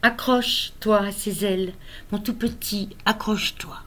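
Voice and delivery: measured poem recital, lifted phrase openings, frequent pauses; poem reading. Acted. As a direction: read your own poem aloud, line by line. Lit son poème. (lecture de poème, posée et expressive)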